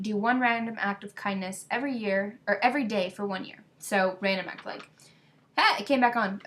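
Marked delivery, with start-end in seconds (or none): 5.6-6.4 pleasantly surprised. Real, not acted. Screen suddenly comes back on.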